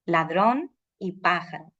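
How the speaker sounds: "ladrón y pájaro", slowly, holding ó and á; lengthened stressed vowels. Shown as a demonstration. Teacher showing long stressed vowels in "ladrón y pájaro". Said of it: "se prolongan un poco las vocales".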